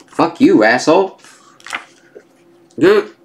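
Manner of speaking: loud, high furious snap; angry outburst. Acted. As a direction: spit it out in rage.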